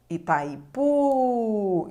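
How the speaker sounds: Itaipu very slow, the final "pu" carrying the stress. Shown as a demonstration. Teacher showing students which syllable is stressed, very slow. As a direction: stretch Itaipu and land hard on the last syllable. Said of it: "a sílaba tônica de Itaipu ... está no U".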